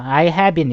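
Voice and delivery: "I have been" joined as "ai hae-bin", no separate v; linked pronunciation. Shown as a demonstration. Teacher modeling for students, "I have been" said linked as "ai hae-bin". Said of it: "이렇게 해요".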